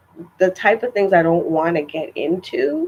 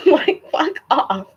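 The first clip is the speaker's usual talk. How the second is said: mock dismissive; 8 semitones higher, slower than usual. Real, not acted. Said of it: "fuck off said twice".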